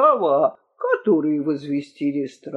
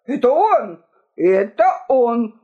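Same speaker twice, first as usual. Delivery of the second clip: higher, pointed accusation; accusing; 4 semitones higher, 3 dB louder than usual. A narrator's reading. Two kings pointing at each other, accusing exclamations. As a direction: blame the other with raised pitch.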